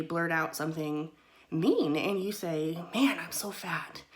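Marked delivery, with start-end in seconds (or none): 2.9-4.0 whispered put-down to yourself; mock whispered self-criticism; muttered self-insult. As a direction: breathe it out like a guilty aside. Acting out mean self-talk.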